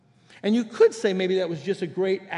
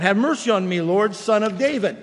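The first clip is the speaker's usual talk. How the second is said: pleading cry for mercy; a mother's loud plea to the Lord; 5 dB louder than usual. Retold or imitated. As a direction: call out for mercy, loud and urgent. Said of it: "She cries out".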